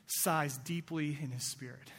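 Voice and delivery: slow, soft and heavy, sighing out the words; weary sigh. Shown as a demonstration. Preacher reading how Jesus sighs, slow and weary. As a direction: let the breath sink as if worn out. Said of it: "you know that sigh".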